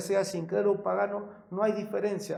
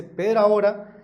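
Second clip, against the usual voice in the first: "pero ahora" much louder, ahora lifted; stressed pero ahora; 3 semitones higher, 7 dB louder than usual. Real, not acted. Reading another version aloud, ringing out "pero ahora". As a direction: proclaim "pero ahora" as the turning point. Reads the verse with emphasis.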